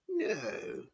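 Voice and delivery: high, sharp, stern refusal; sharp Matron no. Acted. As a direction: snap it out like a strict matron. Matron voiced in story.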